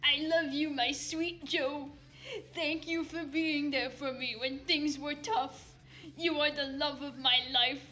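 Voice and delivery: lightly voiced Trump reading a love letter; a hint of Trump, mock tender; Trump impression. Trump writing a farewell letter to Joe, lightly impersonated. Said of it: "it's the Trump impression".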